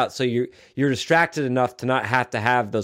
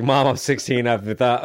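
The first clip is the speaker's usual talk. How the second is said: lightly put-on British accent, mock rock star; a hint of a British accent for a teen telling mom; British rock singer. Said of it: "I don't know why he's British in this".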